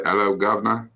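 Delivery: put-on playful British greeting accent. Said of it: "my British accent falls off".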